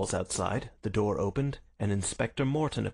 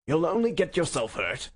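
raised, higher police warning; urgent warning; 7 semitones higher, 4 dB louder than usual. A narrator's reading. Inspector restraining a prisoner, raised urgent warning. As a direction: warn sharply over a struggle.

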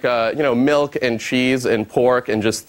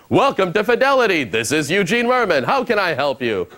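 movie phone voice; 3 semitones higher than usual. Retold or imitated. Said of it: "in my movie phone voice".

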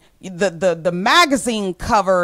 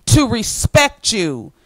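ordinary talk

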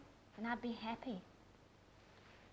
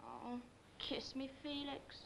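pleading hush; 13 dB quieter, slower than usual. Acted. Begs for a kiss.

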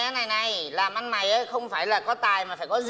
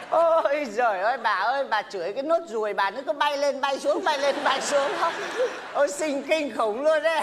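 teasing laughter; 3 semitones higher than usual. Real, not acted. Teasing about her scolding.

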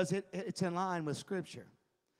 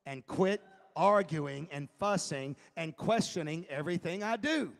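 very firmly; 2 semitones lower than usual. Acted. Jesus to his arguing disciples, firm but not shouting. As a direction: lay down the law without yelling. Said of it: "very firmly said".

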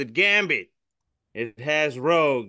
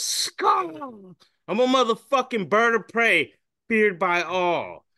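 much higher, puffed-up boast; high mock-heroic hawk bragging; boastful hawk; 8 semitones higher, slower than usual. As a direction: crow it out like a proud predator.

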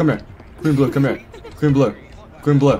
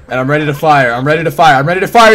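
building excitement; 6 dB louder than usual. Real, not acted. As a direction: hype it up step by step. Building hype before firing.

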